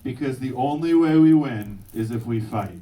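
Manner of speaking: loud, rallying "Because the only way we win is if we fight"; rally the crowd with it; stirring lead line; rousing oath line. Shown as a demonstration. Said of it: "repeat after me".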